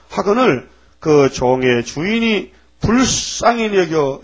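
drawn-out reading of the servant's plea; slow pleading scripture reading. Acted. Preacher reads the servant's plea to the congregation, slowly. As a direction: stretch the words like a humble plea.

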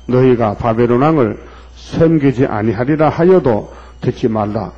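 slow, solemn prophetic recitation; scripture reading. Acted. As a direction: proclaim the judgment verse. Reads verse aloud. (느리고 엄숙한 예언 낭독)

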